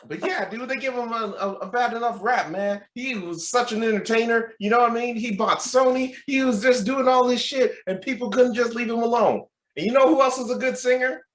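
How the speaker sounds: high-pitched, earnest Southern fan; Southern accent. Retold or imitated. Gym stranger defends the entertainer, imitated Southern accent. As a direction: plead the idol's case in a Southern accent. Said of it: "with Southern accent".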